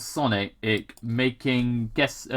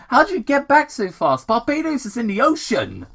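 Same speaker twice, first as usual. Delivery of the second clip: much higher, baffled dumbass voice; high, dopey confusion; dim Wade; 12 semitones higher, 4 dB louder than usual. Acted. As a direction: reason it out like a clueless deputy. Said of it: "Wade is something known as a dumbass".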